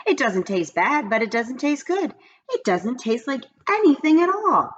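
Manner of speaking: put-on high puzzled little girl; lightly voiced complaining child; childish disappointment; girl's voice. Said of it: "said Mauricia".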